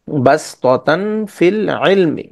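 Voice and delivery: বাসতাতান ফিল ইলমি drawn out slowly; slow recitation. Shown as a demonstration. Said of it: "সিন দিয়ে পড়লেও সঠিক".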